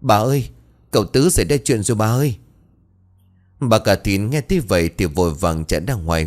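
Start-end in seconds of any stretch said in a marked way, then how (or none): 0.0-2.3 whimpering plea. Acted. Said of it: "rồi mếu máo".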